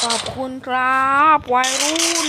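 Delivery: mock thanks. Taunting beaten players in game.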